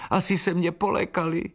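high wailing bird voice; lamenting little bride. Acted. Bride swallow laments her guests fled, high wail. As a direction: wail it like a small upset bride. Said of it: "naříkala nevěstinka".

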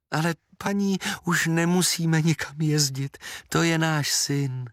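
mother telling the aunt this is her son, happily; happy mother. Acted. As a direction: speak like the noon sun. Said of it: "řekla maminka šťastně".

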